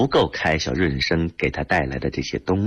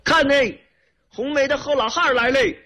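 put-on children calling out. A narrator's reading. Village children announce the car's arrival, shouting. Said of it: "孩子们就喊叫说".

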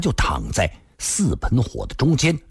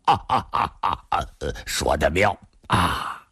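staccato laughter into praise; hearty old man's laugh; 6 semitones lower than usual. A narrator's reading. Old man delighted by Li's reply, laughing. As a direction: laugh in bursts, then approve. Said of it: "孙老先生抚掌大笑".

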